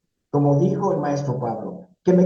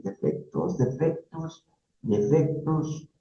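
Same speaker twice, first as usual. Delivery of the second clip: stumped pondering; 4 dB quieter, slower than usual. Retold or imitated. Job candidate asked for personal flaws, mock pondering. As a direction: mull the word over slowly, trailing it out.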